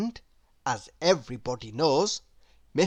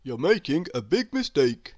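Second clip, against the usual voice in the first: odd little creature voice, earnest; warning worm; 2 semitones lower than usual. A narrator's reading. A worm pops up to warn Miss Stubborn. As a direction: warn her gravely as a small worm. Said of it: "said a worm".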